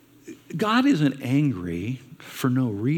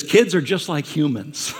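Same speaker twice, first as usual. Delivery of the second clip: laughing punchline; 2 semitones higher, 4 dB louder than usual. Retold or imitated. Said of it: "And he says".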